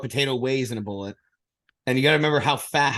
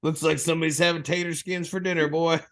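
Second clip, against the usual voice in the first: mock action-hero quip; 4 semitones higher than usual. Action-hero one-liner.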